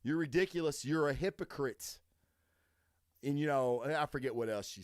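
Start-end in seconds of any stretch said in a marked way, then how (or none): 0.0-2.0 scornful retort. Retold or imitated. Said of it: "And I'm like".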